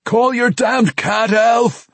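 high, drawn-out angry holler; loud, urgent demand to a far-off friend; yelled order. Acted. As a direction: yell it slowly across a long distance. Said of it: "Bruner yelled".

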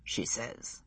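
whispered under the breath; muttered whisper. A narrator's reading. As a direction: mutter it half to himself. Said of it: "he muttered".

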